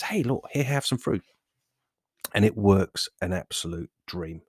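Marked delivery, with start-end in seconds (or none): 0.0-1.2 fruit dealer voice. Acted. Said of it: "fruit dealer just steps in there and says".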